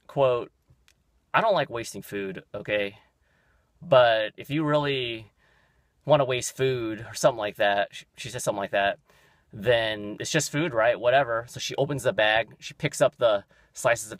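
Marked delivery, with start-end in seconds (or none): 1.3-7.0 imitated snippy clerk, slow and deliberate; mock condescending retort; snappy attitude. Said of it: "She has this attitude". 9.5-11.4 imitated dismissive clerk; mildly mock a pointed, dragged-out retort; retold snippy brush-off; snappy attitude. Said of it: "She has this attitude".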